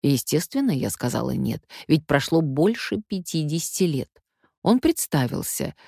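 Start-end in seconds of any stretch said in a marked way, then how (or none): none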